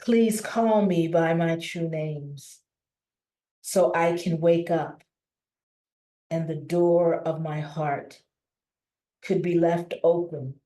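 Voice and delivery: measured poetry reading, pausing between phrases; poem reading. Acted. Inviting the community to be with all of who we are, poem recital. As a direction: recite it line by line, each opening lifted, then settling.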